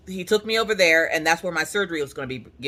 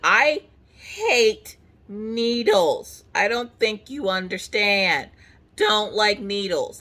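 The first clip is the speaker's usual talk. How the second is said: whiny protest; 4 semitones higher, much slower than usual. Retold or imitated. Whining to nurse about needles.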